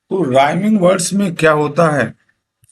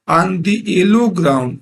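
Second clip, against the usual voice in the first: very slow, each word drawn out; slow poem reading; 3 semitones higher, much slower than usual. Shown as a demonstration. Teacher reading a poem line to students, very slow. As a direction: read it word by word for the class. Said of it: "teacher reads poem line".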